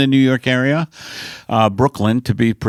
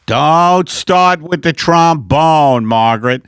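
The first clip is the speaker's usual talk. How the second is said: weary husband character; 5 dB louder, slower than usual. Acted. Husband Al answers wife.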